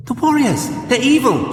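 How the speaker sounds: put-on high, alarmed girl's exclamation; exclaiming. A narrator's reading. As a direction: blurt out the danger in fright. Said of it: "she exclaimed".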